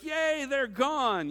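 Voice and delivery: high, slow, delighted yay; mock yay. Pastor mocking relief that bad days are gone, a high glad yay. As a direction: stretch the yay in glee. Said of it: "whether it be like".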